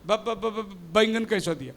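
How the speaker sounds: b-b-b stammer before the word; stammering customer. Acted. A customer stammering at the vegetable seller, mild stutter. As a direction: stutter on the first sound, softly. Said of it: "दोनों तोतला है".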